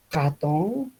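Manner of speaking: "ratón" said /xaton/ with a rasping throat R; variant R. Shown as a demonstration. Teacher showing a variant R that keeps meaning. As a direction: scrape the R of "ratón" at the back of the throat. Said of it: "pero si digo ratón".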